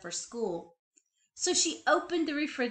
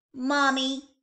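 put-on child calling mommy; 5 semitones higher, 8 dB louder than usual. A narrator's reading. Child calls mother.

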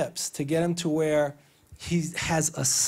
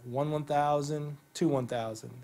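counting the hold; 4 dB quieter than usual. Shown as a demonstration. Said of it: "a two-second hold at the bottom".

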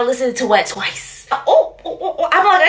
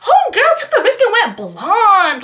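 laughing quote; 5 semitones higher than usual. Retold or imitated. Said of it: "I was like".

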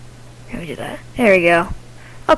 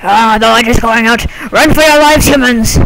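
raised-voice, hammed-up warning; mock alarm. Ghost warns humans the light is going out, mock-panicked call. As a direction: call out a playful doom warning, rising on the command.

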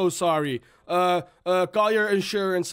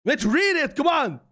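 exasperated urging; 5 semitones higher than usual. Real, not acted. Pleading with friend to read message.

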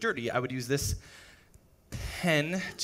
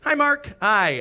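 overeager hi; 7 semitones higher, 9 dB louder, slower than usual. Pretend. Prank greets manager.

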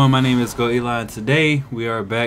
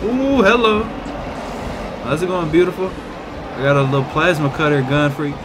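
higher, louder playful greeting; mock-flirty taunt; 3 semitones higher, 4 dB louder than usual. Real, not acted. Gamer greeting a monster with a mock-sweet taunt. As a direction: tease the monster like a date.

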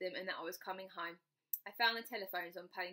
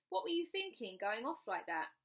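scolding father; 4 semitones higher than usual. Acted. Father scolds runaway daughter.

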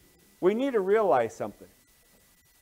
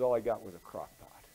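deflated; 6 semitones lower, 4 dB quieter than usual. Acted. Outburst collapses into disappointed punchline.

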